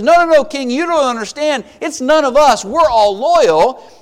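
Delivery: mildly panicked underling explaining himself; urgent protest. Retold or imitated. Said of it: "one of them speaks up quickly".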